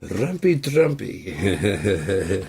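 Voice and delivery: very slow, stretched-out words; drawn-out. Acted. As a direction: savor each syllable. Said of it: "savoring the phrase".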